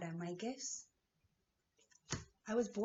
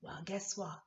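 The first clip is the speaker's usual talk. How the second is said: whisper. Real, not acted. Teasing aside to viewers.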